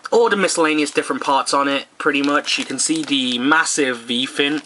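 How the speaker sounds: hoarse, worn-out voice; a rough voice that is giving out; losing voice. Real, not acted. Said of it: "sorry, losing my voice".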